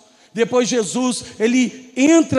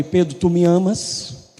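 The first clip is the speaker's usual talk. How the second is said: tender question; 5 semitones lower, slower than usual. Acted. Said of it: "Jesus fala pra ele".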